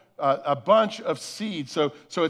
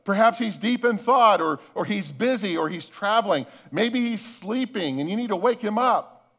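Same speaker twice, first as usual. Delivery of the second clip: mock-helpful jeer, lightly acted; taunting; 3 semitones higher than usual. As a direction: needle them with pretend excuses for their god. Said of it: "Elijah began to taunt them".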